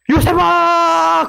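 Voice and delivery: very long, high dramatic wail; high, slow melodramatic call; anguished calling out. Acted. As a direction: stretch the name into a cliffhanger cry. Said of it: "그러고 음악이 빵빵빵빵빵빵 고조돼가지고".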